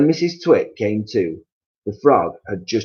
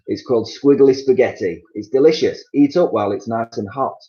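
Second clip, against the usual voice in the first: sly Missus Twit; 3 semitones higher, 6 dB louder than usual. Acted. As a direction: sell him the dish sweetly. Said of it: "Missus Twit said".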